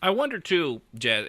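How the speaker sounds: normal talking voice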